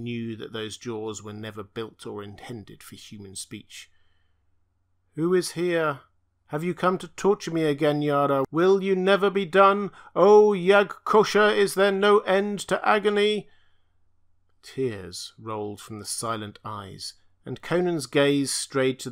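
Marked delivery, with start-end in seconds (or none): 5.1-13.5 higher, unchanging monster voice rising to anguished loud cries; a tortured blind being cries out in pain; strange stammering creature. A narrator's reading. Blind tortured creature pleading with its tormentor, higher and strained. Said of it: "in a strange, stammering voice that never changed its key or timbre".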